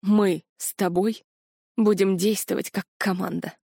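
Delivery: slow, breathy held-back words; exhaled slowly. A narrator's reading. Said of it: "наконец выдохнул он".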